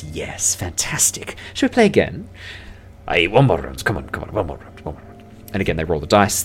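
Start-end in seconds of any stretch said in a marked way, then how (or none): 0.0-2.3 pleased elf. Acted. Elf to beaten dwarf, pleased invitation. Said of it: "and the elf goes". 3.1-5.2 muttering gambler dwarf, fading away; eager dwarf. Acted. Dwarf to elf after losing, eager muttering. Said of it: "the first time the dwarf".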